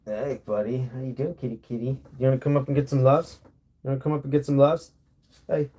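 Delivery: quick, soft coaxing to the kitty; pet talk. Real, not acted. Calling his cat up for cuddles, quick and coaxing. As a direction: coax the cat up with sweet talk.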